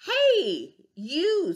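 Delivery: high, loud bossy hail; calling out. Acted. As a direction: call out to pick a fight. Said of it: "said the grouchy ladybug".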